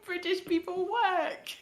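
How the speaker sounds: uncertain stab at posh British; put-on British, breaking into a laugh; fumbling a posh British accent. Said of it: "like, a posh accent?".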